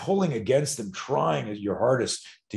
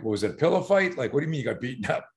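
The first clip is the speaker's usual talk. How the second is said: a light, higher doubting dad; skeptical dad; 3 semitones higher, faster than usual. Retold or imitated. Dad doubts his unhurt son, lightly skeptical. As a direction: tease the son's story, lightly. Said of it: "he says something like".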